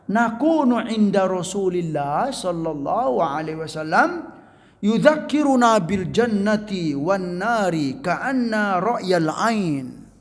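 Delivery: slow, intoned Arabic hadith recitation. Acted. Preacher reciting the hadith to the congregation, slow and intoned. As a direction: chant the hadith text slowly and solemnly.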